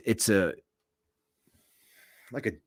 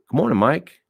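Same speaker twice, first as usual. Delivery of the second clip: called-out greeting; 7 semitones higher, 6 dB louder than usual. Retold or imitated. Calling out greeting under car.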